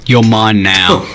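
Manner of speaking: slow, drawn-out voiced menace; mock kidnapper. Co-host as a basement kidnapper to a captive, slow mock menace. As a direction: play a kidnapper claiming a captive, slowly. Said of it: "that's how they're gonna talk to you".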